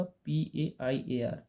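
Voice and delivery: slow, letter by letter spelling. Shown as a demonstration. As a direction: spell each letter out slowly for the class. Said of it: "सही spelling क्या होगा?".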